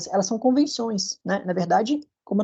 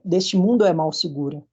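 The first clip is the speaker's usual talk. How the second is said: verse read with mundo é run together; scanned verse reading. Shown as a demonstration. Teacher demonstrating the joined syllable in mundo é. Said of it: "Então fica".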